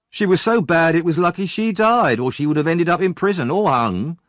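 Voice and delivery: put-on high, loud spiteful boy; cruel bully. Noah tells Oliver his mother deserved to die, spiteful and loud. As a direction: spit the insult out to wound.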